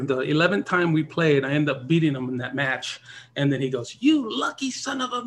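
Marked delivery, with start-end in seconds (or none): 4.0-5.2 high, bitter grumbling voice; sore loser jab. Retold or imitated. Imitating Earl's sore-loser jab.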